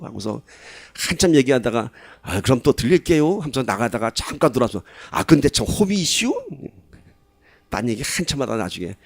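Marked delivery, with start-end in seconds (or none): 2.2-3.4 put-on Chungcheong accent. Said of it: "충청도 사람이 그런다". 5.1-6.3 put-on Chungcheong accent. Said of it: "충청도 사람이 그런다".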